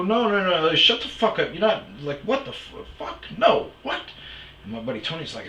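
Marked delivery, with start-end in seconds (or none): 0.0-4.0 high, loud, disbelieving yelling; mock panic at a friend's request; shocked friend yelling about the meth shower, high and loud; retold frantic shout. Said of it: "I go".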